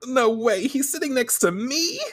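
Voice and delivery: high, rising incredulous squeal; giddy disbelief. Retold or imitated. Heroine realizes the idol sits next to her, giddy.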